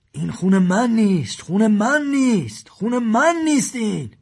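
man showing his bleeding finger, panicking; panicked. A narrator's reading. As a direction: repeat it in rising panic. Man in shock, showing blood.

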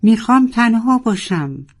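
high, loud anguished cry; desperate shout to be left alone. A narrator's reading. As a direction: roar it out in despair. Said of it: "و فریاد زد".

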